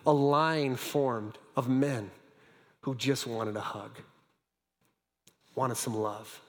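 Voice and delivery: quiet tenderness; tender. Acted. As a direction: let each word land gently. Tender close of story.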